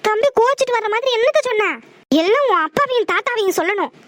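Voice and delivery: high-pitched scolding of her daughter; angry scolding. Acted. (மகளை உயர்ந்த குரலில் திட்டும் அம்மா)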